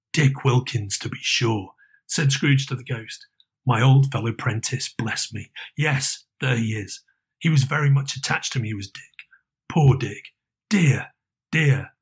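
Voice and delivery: a lightly voiced old Scrooge, wistful. Scrooge remembers old friend.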